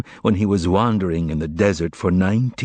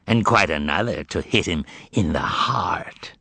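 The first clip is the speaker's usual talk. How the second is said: hushed menace. Acted. Azazello's cold threat.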